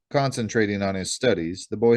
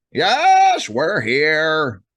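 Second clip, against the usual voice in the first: grudging computer voice, drawn-out reluctant yes; 6 semitones higher, 6 dB louder than usual. Narrator reading the computerized voice answering Jack's question; Uncle Verge's reluctant computer voice. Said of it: "the computerized voice confirmed reluctantly".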